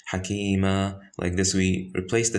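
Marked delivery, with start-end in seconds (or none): 0.1-1.0 "hakima" ending in a drawn-out aa; no n, let "hakima" end on a long open a; stopping form. Shown as a demonstration. Teacher showing how to stop on the word, stopping form. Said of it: "that's what we say".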